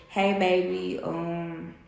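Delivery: tender morning greeting, lightly re-enacted; morning sweet talk. Woman retelling her morning text to her partner, tender. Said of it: "that's how we talk in the morning time".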